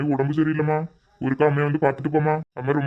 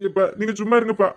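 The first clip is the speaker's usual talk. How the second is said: tearful consoling; 3 semitones higher than usual. Acted. Daughter consoling weeping stepmother.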